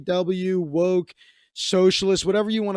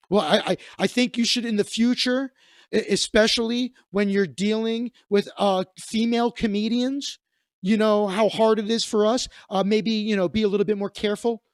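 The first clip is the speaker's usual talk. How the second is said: prissy lecturing voice; 3 semitones higher than usual. Retold or imitated. Mimicking the offended comic.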